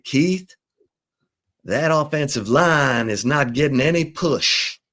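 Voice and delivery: put-on a light Georgia-accented broadcaster voice; Georgia accent impression. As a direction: mimic the old Georgia announcer calling a game to Keith. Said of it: "it talked like this".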